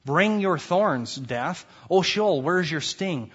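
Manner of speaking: drawn-out summoning proclamation; slow summoning call. Acted. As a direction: summon death and Sheol slowly. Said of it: "He's summoning these things upon his people".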